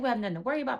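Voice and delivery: high, put-on customer-service sweetness. Friend placating security at the door, mock HR voice. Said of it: "starts talking in her H R voice".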